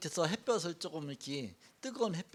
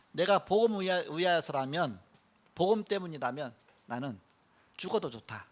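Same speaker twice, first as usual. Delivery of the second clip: louder, fervent declaration; Paul's vow; 6 dB louder than usual. Acted. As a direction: proclaim it like a willing martyr. Paul's vow voiced in sermon. (크게 외치는 바울의 결단)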